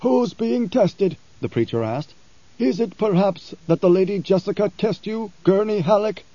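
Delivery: a lightly voiced preacher pressing his question; blind preacher. Blind preacher challenging Halleck, probing.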